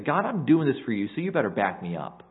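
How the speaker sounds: a hint of cocky bargaining with God; mock demanding prayer. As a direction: say it like you expect God to owe you. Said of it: "Asa's not saying it like that".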